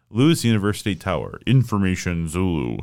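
lightly imitated automated robot voice. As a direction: read it like a flat automated recording. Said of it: "a really robotic voice".

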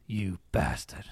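low, slow put-on Downton voice; Downton quote, low. Host throws down a throwback Downton line, low and slow. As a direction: drag it out low and scornful. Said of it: "I'm gonna throw this down".

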